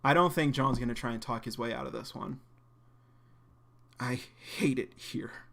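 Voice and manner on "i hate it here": weary despair. Acted. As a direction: let it drop out tired and beaten. John confesses to the headmaster.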